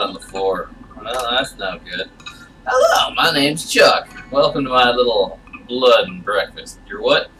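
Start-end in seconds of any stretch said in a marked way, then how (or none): 2.7-6.8 creepy host voice. Acted. Game character Chuck greets player.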